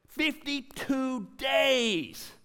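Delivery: high, drawn out cry of fifty-two days; shouted proclamation. Real, not acted. Pastor shouting the triumph to the congregation. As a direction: call it out slow and high.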